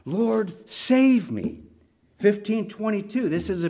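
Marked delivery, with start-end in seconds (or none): 0.0-1.6 slow, drawn-out plea, pitched up; a measured retold cry for rescue. Frightened Peter calls to Jesus while sinking, crying out. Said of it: "and he cried out".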